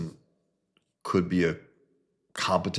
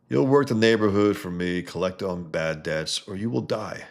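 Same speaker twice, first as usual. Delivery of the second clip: menacing threat; 4 dB louder than usual. Acted. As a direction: lean in on the threat. Mob boss threatening.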